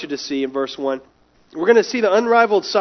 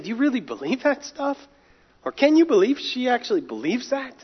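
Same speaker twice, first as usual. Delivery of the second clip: mocking scoff; 6 semitones higher than usual. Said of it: "all they hear is mockery".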